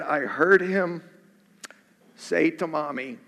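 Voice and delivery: low, subdued, pausing to steady yourself; hushed ending to a moving letter; emotional letter reading. Real, not acted. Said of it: "this is pretty emotional".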